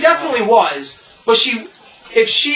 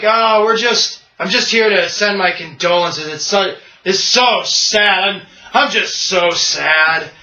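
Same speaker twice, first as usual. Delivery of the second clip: mock sorrow. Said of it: "he's playing Lex Luthor".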